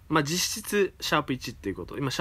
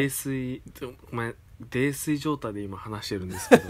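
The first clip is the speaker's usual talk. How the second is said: tipsy, laughing while talking. Real, not acted. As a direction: talk like you've had a few drinks.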